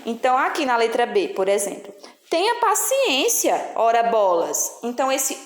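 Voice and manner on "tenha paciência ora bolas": exasperated. Shown as a demonstration. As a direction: sigh it out like a fed-up parent. Reading an exasperated example sentence. (impaciente, devagar, começo agudo)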